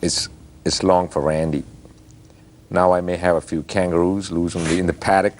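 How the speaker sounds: light Australian slang patter; nasal Aussie accent. Shown as a demonstration. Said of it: "if I speak it in a nasal way".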